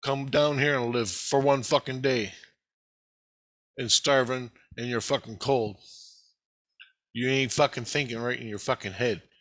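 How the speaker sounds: a touch of heated protest, retold; mild mock outrage, pushing back; defiant retort. Answering Christ's blame, mildly heated retold protest. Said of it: "And I go".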